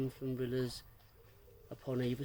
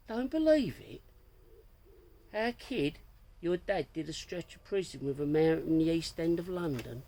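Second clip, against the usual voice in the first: high amused voice; 4 semitones higher, 4 dB louder than usual. Acted. Tommy translating, laughing.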